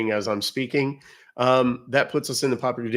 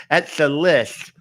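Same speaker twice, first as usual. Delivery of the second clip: mocking nitpicker; 3 semitones higher, 4 dB louder, much slower than usual. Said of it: "and saying".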